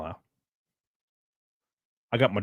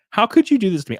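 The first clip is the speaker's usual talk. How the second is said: higher, hammed-up wounded protest; mock anguished outcry; 8 semitones higher, 4 dB louder, faster than usual. Streamer to blocked article site, mock anguished outcry. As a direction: cry it out in pretend betrayal. Repeats mock complaint, dramatically.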